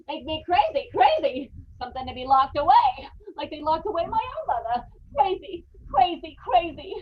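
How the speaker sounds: repeating crazy in fearful agitation; the word crazy haunting him; breaking near tears over crazy; rising panic. Acted. Panicked man spiralling into madness.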